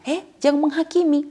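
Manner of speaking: a hypocrite shouting down his critic, loud and indignant; indignant retort. Retold or imitated. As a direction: throw it back at the rebuker indignantly. Sinner snapping back at rebuker.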